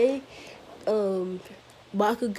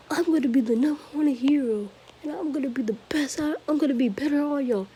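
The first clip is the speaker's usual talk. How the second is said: higher, fast cocky bragging; a kid voicing a boastful rival; 5 semitones higher, faster than usual. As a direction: rattle off the brag like a show-off. Bakugo boasting to class.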